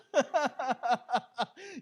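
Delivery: loud high laughter. Real, not acted. Recalling being found.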